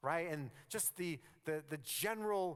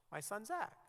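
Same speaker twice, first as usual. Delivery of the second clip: ordinary talk, nothing marked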